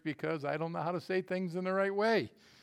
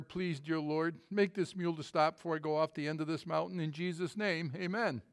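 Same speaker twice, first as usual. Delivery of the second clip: hurried prayer; 4 dB quieter than usual. Retold or imitated. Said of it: "the man said in prayer".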